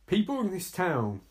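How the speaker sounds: quoting with a touch of disbelief; restrained disbelief. Retold or imitated. Viewer repeats film dialogue, restrained disbelief. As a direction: repeat it back, holding the outrage in.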